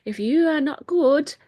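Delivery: high, loud mock grandma threatening her grandson; imitating grandma. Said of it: "and she's like".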